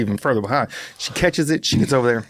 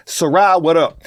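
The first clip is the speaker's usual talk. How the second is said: excited shout-out; 3 semitones higher, 4 dB louder than usual. Real, not acted. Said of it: "I said your name".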